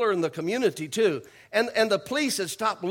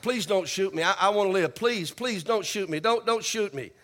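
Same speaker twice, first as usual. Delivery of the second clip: begging for my life. Retold or imitated. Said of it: "the guy's begging for his life".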